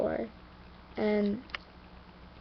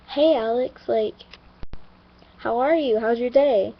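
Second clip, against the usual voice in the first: bright cheerful greeting; 7 dB louder than usual. Retold or imitated. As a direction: greet a friend with sunny energy. Friend Neray greeting cheerfully.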